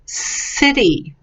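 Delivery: "city" slowed, with an s at the start; soft C sound. Shown as a demonstration. Teacher contrasting hard and soft C, soft s sound. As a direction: draw out the soft s opening "city". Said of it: "or soft".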